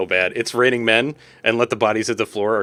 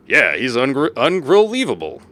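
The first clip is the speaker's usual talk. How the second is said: character voice; 3 semitones higher, slower than usual. Acted. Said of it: "Is that the voice I was doing for you?".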